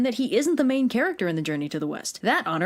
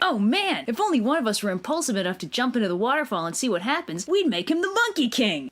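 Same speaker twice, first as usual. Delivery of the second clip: acted monkeys. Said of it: "So all the monkeys are like".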